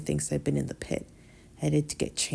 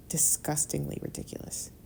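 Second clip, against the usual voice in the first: whispered; 6 dB quieter than usual. Real, not acted. Whispered bitter remark.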